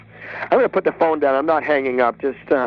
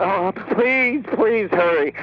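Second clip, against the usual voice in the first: pleading; 4 semitones higher, slower than usual. Acted. Caller begs dispatcher to send help.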